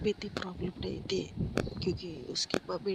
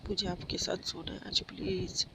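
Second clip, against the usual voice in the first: begging little brother. Acted. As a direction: wheedle like a small boy who wants his mom. Little brother begs mother.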